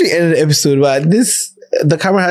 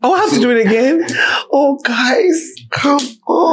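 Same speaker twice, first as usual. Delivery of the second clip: mock whine; 8 semitones higher than usual. Whines at doing it again.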